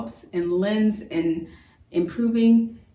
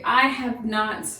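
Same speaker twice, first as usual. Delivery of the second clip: slow full form; 2 semitones higher, much slower than usual. Shown as a demonstration. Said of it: "rarely do we want to say".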